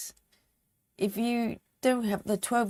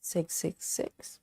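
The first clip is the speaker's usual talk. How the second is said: whispering; 2 semitones lower, 8 dB quieter, slower than usual. Real, not acted. Whispering the devil number.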